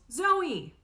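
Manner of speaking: put-on high, loud child's yell. Little girl yelling for her big sister, loud. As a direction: shriek her name. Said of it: "Because Aurora yells".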